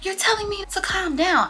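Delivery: high, loud whiny friend voice; mimicking Coco upset. Friend Coco quoted in quarrel.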